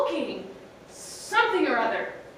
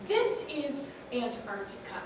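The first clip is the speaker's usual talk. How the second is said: smug confidence; 7 dB quieter than usual. A narrator's reading. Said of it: "brimming with confidence".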